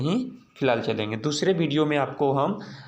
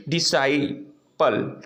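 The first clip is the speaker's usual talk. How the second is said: slow sounding out; much slower than usual. Shown as a demonstration. Teacher sounding out word.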